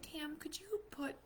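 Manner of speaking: hushed, strained whisper to a friend; forced calm whisper. Retold or imitated. Mom quietly urging friend to lock purchases, whisper. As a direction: keep it quiet, hide the panic. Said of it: "But I have to stay calm".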